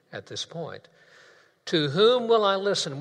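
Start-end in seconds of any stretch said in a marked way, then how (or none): 1.7-3.0 raised, leading the chant; preacher calling the choir to repeat; louder call. Shown as a demonstration. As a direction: lead the congregation in the line. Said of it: "Choir, I'm expecting a real backup".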